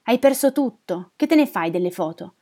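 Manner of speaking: loud, scornful challenge; harsh rebuke. Acted. Neighbour scorning the old woman's request, harsh. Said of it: "mi apostrofò Cresimir".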